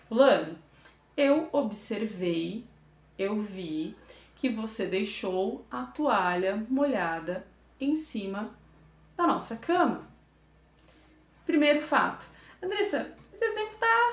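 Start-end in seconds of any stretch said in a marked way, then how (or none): 0.1-10.1 calm observation. Shown as a demonstration. To her fiancé about the wet towel, calm and unhurried. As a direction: lay out the fact calmly. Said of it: "eu vou fazer uma observação".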